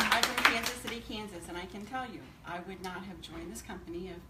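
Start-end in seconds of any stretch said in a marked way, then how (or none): 0.1-1.0 laughing. Real, not acted. Laughing, still loud.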